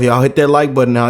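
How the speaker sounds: normal talking voice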